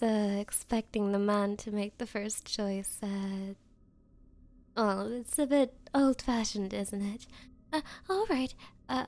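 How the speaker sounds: usual speaking voice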